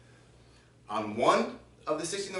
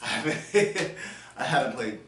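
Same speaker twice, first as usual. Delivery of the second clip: breathless laugh through the words; laughing while catching breath after playing. Real, not acted.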